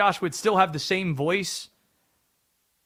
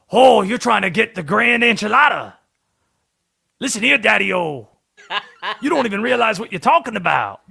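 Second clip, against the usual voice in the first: lightly put-on Southern accent in a short demo; a hint of John Candy doing Southern, casual; 2 semitones higher than usual. Shown as a demonstration. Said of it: "the only accent I can do ... Southern accent".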